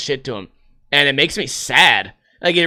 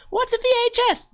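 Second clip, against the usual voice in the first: put-on much higher, squeaky kid asking; high piping child asking what a VHS is; clueless kid voice; 4 dB quieter than usual. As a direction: play a confused little kid. Voices a young viewer asking.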